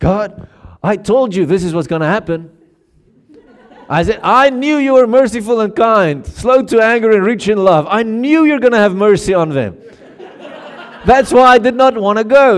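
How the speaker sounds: acted-out resentful, bitter, angry grumbling rant. Acting out Jonah complaining to God: bitter angry Jonah voice. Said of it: "he's like this bitter little dude".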